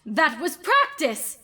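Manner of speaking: high, slow desperate protest with a nervous laugh; frantic protest. Acted. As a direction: plead it didn't count. Villain protests her loss.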